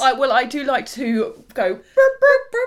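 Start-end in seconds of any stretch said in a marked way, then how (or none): 1.8-2.5 high, popping vocal burst; primping noise. Shown as a demonstration. Co-host shows how she likes to primp her hair, high popping noise. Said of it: "that's the noise of someone primping".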